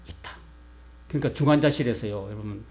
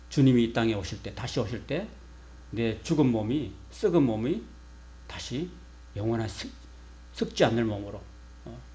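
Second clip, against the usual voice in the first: ordinary delivery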